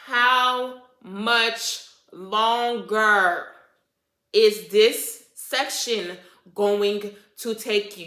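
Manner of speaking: very slow, loud, stretched-out words; exasperated demand. Retold or imitated. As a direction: drag each word out in mock exasperation. Retold demand to stylist.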